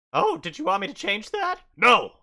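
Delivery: high, loud, exasperated outburst; indignant bugbear refusal. Acted. Bugbear ruler refusing to fix the town, indignant. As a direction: leap up in pitch and refuse loudly.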